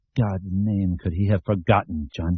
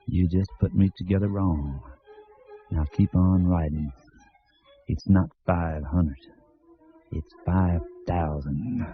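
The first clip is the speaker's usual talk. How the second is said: put-on drawling Southern accent; 4 semitones lower, 4 dB quieter than usual. A narrator's reading. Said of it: "in his bald, drawling Southern accent".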